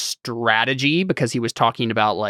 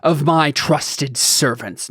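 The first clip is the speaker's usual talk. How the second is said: slow, raised lordly declamation; lofty; 4 semitones higher, much slower than usual. Acted. A lord continuing his speech to an elf, lofty. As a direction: pronounce it grandly and slowly. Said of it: "we sound so lofty".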